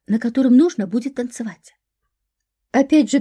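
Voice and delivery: usual speaking voice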